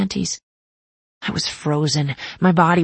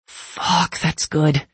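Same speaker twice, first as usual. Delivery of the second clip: thick deep voice; much slower than usual. A narrator's reading. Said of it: "His voice was thick and deep".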